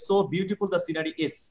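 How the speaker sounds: So beautiful read slowly, word by word; slow example reading. Shown as a demonstration. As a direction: dictate slowly, stressing So. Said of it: "আমি একটা adjective দিয়ে দেখালাম". (ধীরে ধীরে উদাহরণ পড়া)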